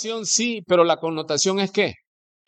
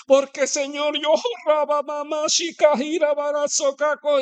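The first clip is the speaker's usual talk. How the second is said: much higher, rushed babbling prayer; fervent prayer in tongues; 10 semitones higher than usual. Retold or imitated. Girl praying in tongues at a restaurant, high and fervent. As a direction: pour out gibberish in a high fervent voice.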